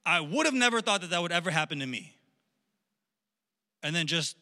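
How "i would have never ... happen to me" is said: a touch louder, wowed and elated. Acted. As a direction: act out being thrilled and awestruck. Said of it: "like, spiritual high".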